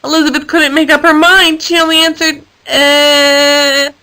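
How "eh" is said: high, strained animal bleat; a short unsure elephant noise. A narrator's reading. Undecided elephant grunt.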